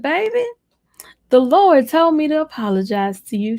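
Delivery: put-on high, sweet voice of an older church mother. An older church lady gently apologizes to the young pastor, high and sweet. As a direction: play the elder gently starting her apology. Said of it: "So she said".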